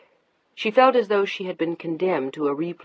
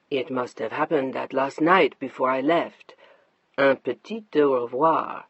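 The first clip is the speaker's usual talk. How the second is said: a touch lower, easy and teasing; hint of a smug husband, slowed on the French; lightly voiced husband; 4 semitones lower than usual. Mark teasing his upset wife, lightly lower voice.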